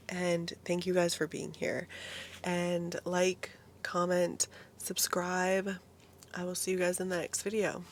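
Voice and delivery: losing her voice, a bit hoarse. Real, not acted. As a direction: talk through a hoarse, worn voice. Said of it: "sorry for my voice".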